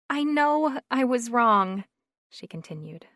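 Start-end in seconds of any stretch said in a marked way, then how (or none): 0.1-1.8 quivering voice. A narrator's reading. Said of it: "with a quiver in her voice".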